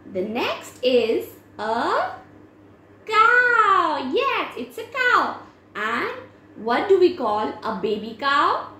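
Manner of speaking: sing-song voice for little ones; reading to a toddler. Acted. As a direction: talk brightly to a small child.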